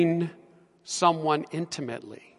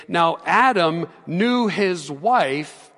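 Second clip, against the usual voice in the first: slow reading; 5 dB louder, much slower than usual. Shown as a demonstration. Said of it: "the English Standard Version say".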